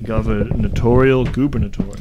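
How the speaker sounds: ad disclaimer read. Acted. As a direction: read it like the end of a radio ad.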